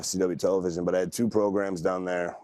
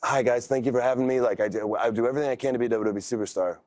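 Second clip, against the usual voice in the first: mock polite newcomer; 4 semitones higher than usual. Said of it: "put on a suit and be like".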